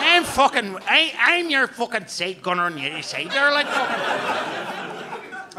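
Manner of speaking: weak Northern Irish accent, admittedly bad. Comic admits his Northern Irish accent falls short. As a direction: try a Northern Irish side gunner voice and miss. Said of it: "It's meant to be Northern Irish".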